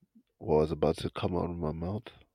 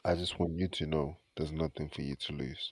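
whispering. Real, not acted. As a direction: whisper it reassuringly. Whispers reassurance to partner.

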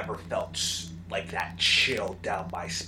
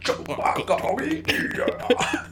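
sweet whisper; 9 semitones higher, 6 dB louder, much slower than usual. Retold or imitated. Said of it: "She said so sweetly".

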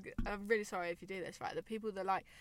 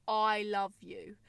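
sweet nothings; much slower than usual. Retold or imitated. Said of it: "the really serious on Instagram".

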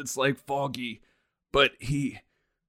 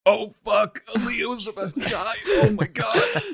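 shocked surprise; 8 semitones higher, 5 dB louder than usual. Real, not acted. Ally nearly died, unnoticed.

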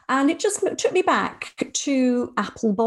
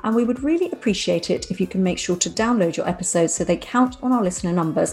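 measured presenter's outro read; scripted podcast sign-off. Real, not acted. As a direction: read the closing notes to listeners. Reads the show's closing script.

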